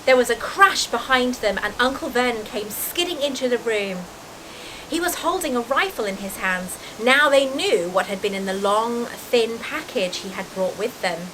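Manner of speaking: animated storybook reading; story narration. A narrator's reading. Reader telling of Uncle Vernon's rifle, in storytelling voice. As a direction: read it as a suspenseful tale.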